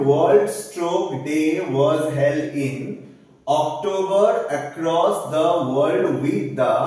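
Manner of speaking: very slow, word by word; slow dictation. Shown as a demonstration. Teacher dictates exam sentence to class, very slow. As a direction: read it out like dictation. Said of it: "dictates exam sentence".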